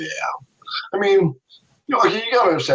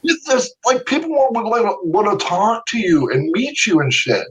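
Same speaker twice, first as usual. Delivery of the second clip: imitating an exasperated friend, much higher; mock disbelief, pitched up, with a laugh; incredulous friend; 10 semitones higher than usual. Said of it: "And he goes".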